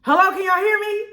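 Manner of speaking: high, loud hello to the audience; calling out. Real, not acted. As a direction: call out to check they hear you. Checking if stream still live.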